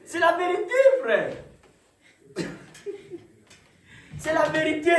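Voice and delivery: high, ringing cry of conviction; loud insistence. Real, not acted. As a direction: proclaim it loudly to the congregation. Insists on truth to congregation. (affirmation criée avec conviction)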